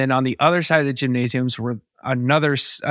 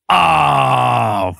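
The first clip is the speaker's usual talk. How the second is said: long, drawn-out loud "oh" and "fuck"; dismayed inner scream; 2 semitones higher, 3 dB louder than usual. Retold or imitated. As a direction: stretch each word into a mock cry of dread. Silent inner scream at huge opponent.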